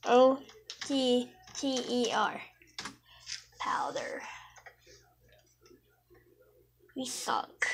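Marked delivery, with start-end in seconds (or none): 3.6-7.7 soft whispered aside; whispering. Real, not acted. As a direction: whisper it under your breath. Quiet aside while spelling.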